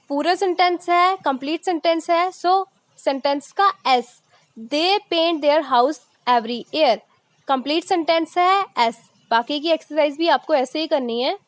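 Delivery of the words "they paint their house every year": reads the sentence very slowly; slow reading. Shown as a demonstration. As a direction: spell it out word by word for the class. Teacher reads example slowly. (धीरे-धीरे पढ़ना)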